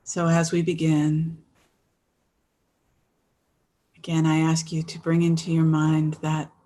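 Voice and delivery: guided meditation. Real, not acted. Resumes leading the meditation.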